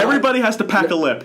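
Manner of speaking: laughing high and fast. Real, not acted. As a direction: blurt it out through laughter. Joking about dipping tobacco.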